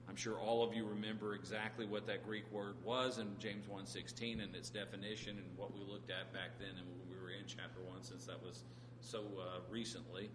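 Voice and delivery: dry, understated sarcasm; mildly sarcastic, played straight; a little sarcastic. Real, not acted. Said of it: "being a little sarcastic there".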